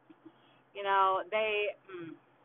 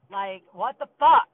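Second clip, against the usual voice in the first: exasperated; 11 dB louder, slower than usual. Real, not acted. Aggravated rant about family.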